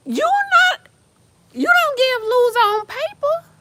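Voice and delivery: high, fast frustrated question; exasperated disbelief. Real, not acted. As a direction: plead with him, baffled. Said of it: "exasperated at friend".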